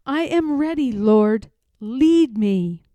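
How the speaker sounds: a firm, fervent offering; Harriet resolved. Acted. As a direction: declare herself ready to the Lord.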